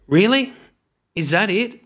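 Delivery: a dad's surprised, relieved question. Retold or imitated. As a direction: sound amazed that's all it is. Dad's surprised reply quoted.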